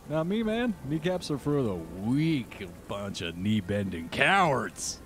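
mock macho boast. GM voices kneeless Strahd boasting.

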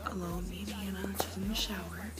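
soft, just-woken-up morning voice. Real, not acted. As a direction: talk with your morning voice. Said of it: "And I have a morning voice".

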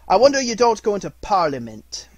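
high, loud mockery; scornful mock admiration; sarcastic. A narrator's reading. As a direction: jeer at his fine speech. Scrooge mocks nephew's speech.

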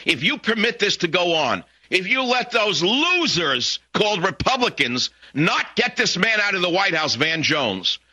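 high, emphatic, indignant warning; angry harangue. Real, not acted. Radio host warns listeners about weak Republicans, angry.

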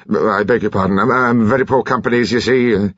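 stammering, embarrassed apology; flustered, halting politeness; exquisite awkwardness. A narrator's reading. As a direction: stumble through awkward thanks. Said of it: "added with exquisite awkwardness".

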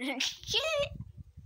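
high, squeaky laugh. Real, not acted. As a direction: let out a squeaky giggle. Laughing after tossing herself.

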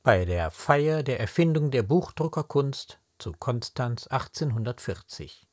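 slow, measured declamation with weighted words; stately poetry reading, drawn-out stressed words; poem recitation. Acted. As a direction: recite the verse solemnly, line by line, with pauses. Recites the poem in full before explaining.

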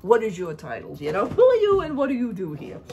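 sharp, demanding questions; confronting quote. Retold or imitated. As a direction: question her pointedly. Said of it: "I said".

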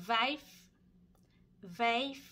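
vijf with a rising tone, repeated; Dutch vijf. Shown as a demonstration. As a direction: model vijf for learners. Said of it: "เลขห้า". (ออกเสียง vijf ภาษาดัตช์)

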